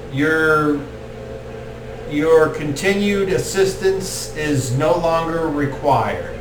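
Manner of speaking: lightly voiced formal elder druid; a hint of a grave ceremonial priest; solemn Archdruid.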